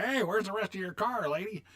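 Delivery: high put-on voice teasing the lady; high mock heckle; mocking guy. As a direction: jeer like a wisecracking guy in an old ad. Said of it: "guy going".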